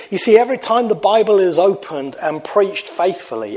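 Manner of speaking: "faithfully" leaned on at the end; stress on faithfully. Shown as a demonstration. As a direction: give "faithfully" the weight of the line. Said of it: "I want to underline that word faithfully".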